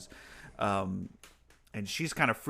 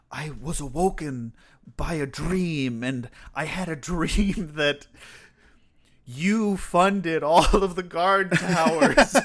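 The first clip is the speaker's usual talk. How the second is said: mock earnest; 6 semitones higher, 7 dB louder than usual. Fitz fakes a dream story.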